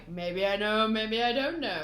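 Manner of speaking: a lightly voiced teasing Buggy; sly Buggy. Fan retelling Buggy's sly taunt, lightly voiced. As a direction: tease like a smug clown. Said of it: "Buggy's being all sly".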